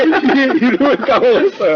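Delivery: high laughing admission. Real, not acted. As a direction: giggle through the confession. Admits forgetting name laughing.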